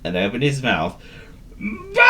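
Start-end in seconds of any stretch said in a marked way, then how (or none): 1.6-2.1 high, long sheep's baa; dog trying a bleat at full breath; shouted bleat. A narrator's reading. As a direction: cry out like a sheep. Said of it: "he shouted".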